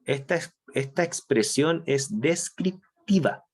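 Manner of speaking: descriptiva said slowly, each syllable weighted; slow down and lean on descriptiva; stress on descriptiva. Shown as a demonstration. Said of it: "aquí recalco la palabra descriptivo". (énfasis lento en la palabra descriptiva)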